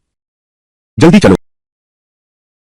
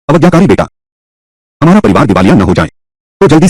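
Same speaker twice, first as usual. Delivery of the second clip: scolding father; 5 semitones higher than usual. Acted. Father scolds his son again.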